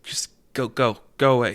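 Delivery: mildly annoyed shooing; half-hearted, weary brush-off; shooing them away. Acted. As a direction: shoo off pests without real force. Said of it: "He's trying to shoo them away".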